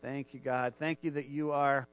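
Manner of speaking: earnest spoken prayer; leading the church in heartfelt prayer. Acted. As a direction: pray aloud before the congregation. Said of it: "would you just join me in prayer".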